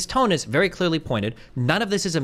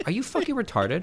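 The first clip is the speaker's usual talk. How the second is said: demeaning question; 3 semitones higher, 4 dB quieter than usual. Shown as a demonstration. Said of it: "I was very demeaning".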